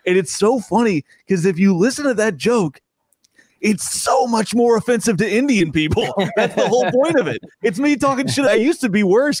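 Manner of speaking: real amused laughter as he talks; laughing. Real, not acted. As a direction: giggle at the irony of it. Amused by angry online comments.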